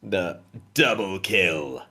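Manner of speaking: slow deep game announcer calls; Halo announcer. Retold or imitated. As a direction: boom out the kill callouts. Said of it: "impression of the Halo guy".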